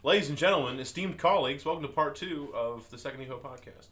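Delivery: grand, loud showman's welcome; florid victorian lecturer. Pretend. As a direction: address the room like a pompous host. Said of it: "sound bites I should use for, like, opening".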